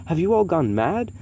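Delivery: injured man protesting the ruler, high and loud; screeched. Acted. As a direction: shriek it out in disbelief. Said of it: "screeched the bald man".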